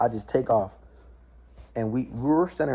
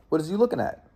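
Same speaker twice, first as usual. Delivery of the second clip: drill sergeant; 5 semitones higher, faster than usual. Retold or imitated. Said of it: "screaming at me".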